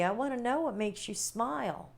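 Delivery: talking with hiccups; hiccuping mid-sentence. Real, not acted. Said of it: "I got the hiccups".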